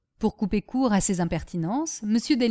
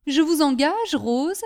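raised, louder mocking address; mock the servant with false politeness; 5 semitones higher, 4 dB louder, slower than usual. Master taunting soaked servant Rose, mocking. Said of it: "avec un rire moqueur".

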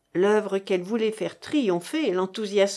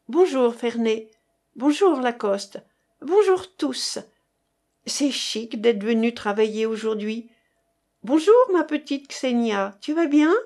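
lightly voiced bright girl, a bit louder; cheerful young woman; 2 semitones higher, 3 dB louder than usual. Young woman greeting her lab friends, lightly voiced and cheery.

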